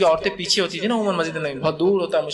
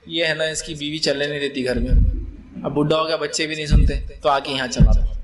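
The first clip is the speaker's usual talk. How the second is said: put-on lower, teasing about the bossy old man; mocking imam; 4 semitones lower than usual. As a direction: tease the old man who shouts in the mosque. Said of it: "وہ پھر امام صاحب بولتے". (بوڑھے نمازی کا مذاق اڑاتا امام)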